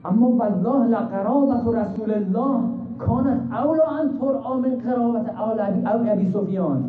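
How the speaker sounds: slow, high chanted Arabic cry; cried out. Acted. Ali Akbar answering the Syrian, slow chanted high cry. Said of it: "فریاد زد که".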